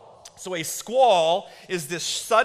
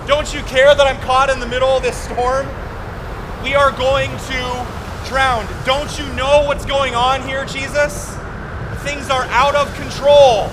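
disciples yelling out; 7 semitones higher, 9 dB louder than usual. Retold or imitated. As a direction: yell at Jesus over the storm. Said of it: "the disciples yell out".

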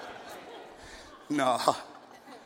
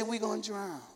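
mock fearful whimper; 2 semitones higher, 11 dB quieter than usual. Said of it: "And you say".

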